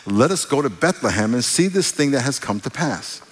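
measured, even Bible reading voice; scripture reading. Acted. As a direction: read the passage with reverence.

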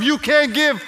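high, impassioned rebuke; passionate, high-pitched scolding as God; passionate yelling. Acted. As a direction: raise the voice in reproach. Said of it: "I'm saying this out of my passion".

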